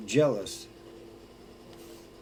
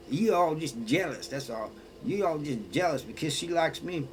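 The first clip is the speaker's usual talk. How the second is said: mildly mock indignant; 4 semitones higher than usual. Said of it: "gets mad at both of us".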